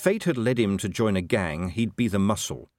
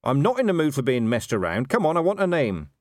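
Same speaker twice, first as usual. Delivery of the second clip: raised-pitch, insistent questioning; impatient demand; 6 semitones higher, 3 dB louder than usual. A narrator's reading. Commander out of patience with a seized dwarf, demanding. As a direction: press the suspect impatiently for an answer.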